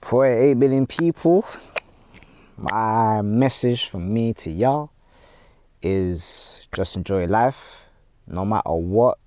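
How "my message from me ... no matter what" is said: sincere. Real, not acted. Sincere message to the world.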